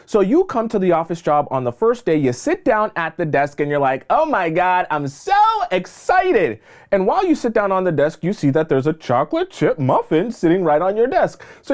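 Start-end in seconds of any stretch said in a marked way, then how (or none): 4.1-6.6 high, drawn-out squeal of delight; gushing excitement. Acted. New hire gushing to herself at her desk, excited squeal. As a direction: gush like a thrilled new hire.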